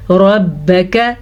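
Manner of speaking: रब्बक slow, each fatha short and crisp. Shown as a demonstration. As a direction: keep रब्बक vowels short. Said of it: "रॉ ज़बर बा". (छोटा ज़बर)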